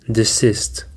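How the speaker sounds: desist said de-SIST, second syllable stressed. Shown as a demonstration. Teacher modelling stress for the class, de-SIST. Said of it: "the stress is on the second syllable".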